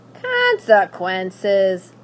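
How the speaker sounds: very slow, loud, menacing; witch repeating. Acted. Witch repeating the threat, slow and menacing. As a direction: stretch the word out.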